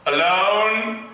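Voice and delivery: hammed-up English accent, slow and mournful; a mock-tragic poem read in a put-on English accent; fake English accent. Poet reading his emo poem to the crowd in a fake English accent. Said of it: "if I do a fake English accent".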